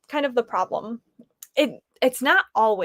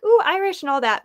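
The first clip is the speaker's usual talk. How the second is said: mock excited; 8 semitones higher, 4 dB louder, faster than usual. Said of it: "and so I was like".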